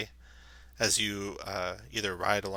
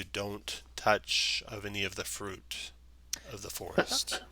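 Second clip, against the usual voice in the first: warning treant; 4 dB quieter, slower than usual. Acted. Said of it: "he warns you".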